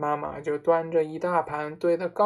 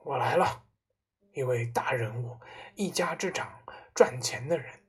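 lightly voiced head of the household demanding respect; self-important father; 2 semitones lower than usual. Father announces himself to the family, self-important.

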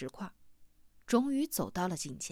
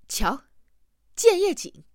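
excited shout, much higher and louder; 9 semitones higher, 6 dB louder, slower than usual. A narrator's reading. Huaite holds a plant up to Hamsen, shouting. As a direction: call out a discovery. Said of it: "冲着哈姆森喊道".

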